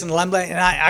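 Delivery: ordinary delivery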